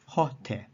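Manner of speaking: "ho te" with the accent on "ho". Shown as a demonstration. Teacher demonstrating an enclitic, accent on "ho". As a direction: stress "ho", with "te" leaning on it. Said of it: "The te gives an accent to the ho".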